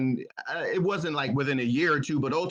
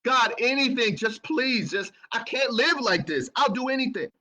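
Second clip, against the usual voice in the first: pleading cry; 6 semitones higher than usual. Retold or imitated. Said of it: "I'm screaming and I'm crying".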